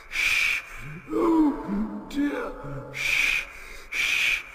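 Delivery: very high fretful sighs between hissing steam; nervous engine. A narrator's reading. Henry creeping through the dark tunnel, fretting. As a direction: puff along fretting like a timid engine.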